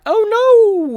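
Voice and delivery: high, loud shriek of alarm; panicked cry. Acted. Reporter snatched, cries out.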